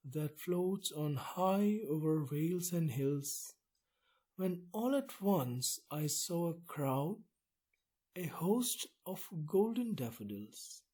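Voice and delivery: a reciting voice, each line given its shape; poem reading. Acted. Lecturer reading the stanza to students, in a recitation voice. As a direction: read the verse aloud at an even, lilting pace.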